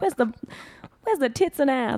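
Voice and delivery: high-pitched mock audience complaint; put-on high voice, demanding the goods; bored audience member. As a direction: pipe up as an impatient theatregoer. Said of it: "I don't know if you were bored".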